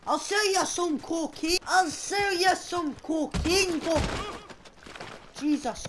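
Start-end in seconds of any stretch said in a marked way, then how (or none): 0.1-4.0 higher-pitched coaxing call; pleading offer. Pretend. Outlaw bargaining with a fleeing witness, calling higher. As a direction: pitch it up to win them back.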